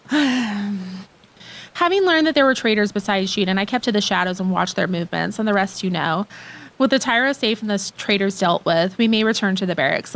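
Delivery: a hint of a solemn knight reporting; lightly voiced knight. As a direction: read the knight's lines low and steady. Reads game knight's dialogue.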